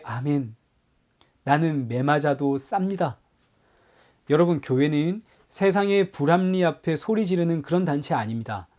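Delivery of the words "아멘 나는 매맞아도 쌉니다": soft, lowered and humble; a meek, softer confession of sin; humble acceptance. Retold or imitated. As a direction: quietly accept the beating as deserved. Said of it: "그래서 이렇게 매맞을 때".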